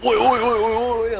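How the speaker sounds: high-pitched parody Australian "oi oi oi"; mock Aussie accent. Friend teasing the Australian about his accent, high mock Aussie chanting. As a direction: chant like a hammed-up angry Aussie. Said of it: "all you hear is".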